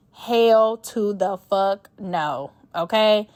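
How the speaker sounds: each word stretched slow and heavy, HELL punched; drawn-out refusal. Real, not acted. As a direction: drag out every word of the no. Emphatic refusal of bad job.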